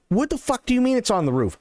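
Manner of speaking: high, fast, panicked disbelief; freaked-out yelp. Retold or imitated. Friend shrieking in disbelief about the owl on the roof, high panicked squeal.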